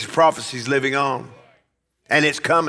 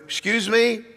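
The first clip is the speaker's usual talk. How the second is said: high-pitched, questioning disbelief; incredulous retort; 8 semitones higher than usual. Acted. Preacher answers someone doubting God's hand in weather, incredulous. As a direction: challenge the objector with a rising question. Mock retort to an imagined objector.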